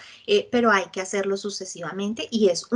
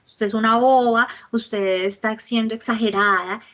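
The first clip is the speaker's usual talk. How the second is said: belittling; 4 dB louder than usual. Retold or imitated. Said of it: "le estoy diciendo a la persona".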